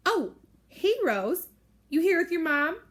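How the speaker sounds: high, loud mock-sweet greeting; snooty fake greeting. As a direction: sneer at Rose with fake sweetness. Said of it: "Claire asks".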